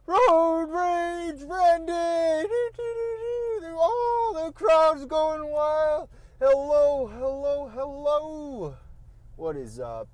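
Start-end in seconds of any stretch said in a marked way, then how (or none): 0.1-8.8 booming showman intro, high and loud; grand entrance announcement. Acted. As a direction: hype it up like a ring announcer. Self-introducing podcast like showman.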